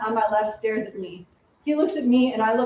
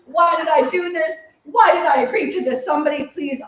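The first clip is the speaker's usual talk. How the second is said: panicked shouting; 4 semitones higher, 5 dB louder than usual. Acted. Panic over mosquito eggs.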